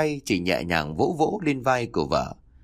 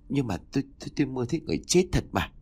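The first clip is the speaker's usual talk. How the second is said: insistent stammer; 3 semitones higher, 3 dB quieter, much faster than usual. Acted. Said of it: "Bà Đại khẽ gắt".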